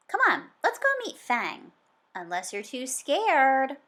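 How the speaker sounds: high, loud, teasing challenge; eager dare. Acted. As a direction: dare them to come see Fang. Sam daring friends.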